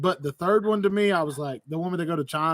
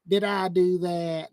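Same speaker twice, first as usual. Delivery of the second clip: Urkel catchphrase; slower than usual. Retold or imitated.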